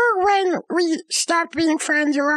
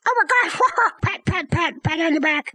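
so happy. Retold or imitated. Reunited friend hugging the other, giddy and laughing. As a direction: squeal with delight, then pat pat. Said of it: "Like, so happy".

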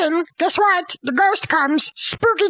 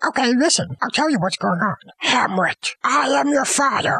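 lower, solemn ghost dad; ghost father; 4 semitones lower than usual. Acted. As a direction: intone it like a spectral father. Ghost dad voiced in retelling.

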